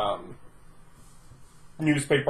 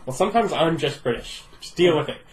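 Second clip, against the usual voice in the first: put-on British accent. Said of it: "Apparently she's British".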